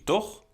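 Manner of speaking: "toch?" on a high rising tune; high questioning "toch?"; checking tag. Shown as a demonstration. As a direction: tack it on like asking for a yes. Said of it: "so they're checking".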